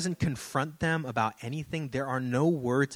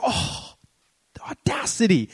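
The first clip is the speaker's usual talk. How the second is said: breathy oh then a higher, louder the audacity; mock indignation; 7 semitones higher, 5 dB louder than usual. Pastor reacting to the lady's prophecy, mock indignant. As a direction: scoff at the nerve of it. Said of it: "I was like".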